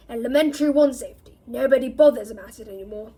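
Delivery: loud, fast gruff grumble; gruff grumbling. Acted. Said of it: "growled Mad-Eye".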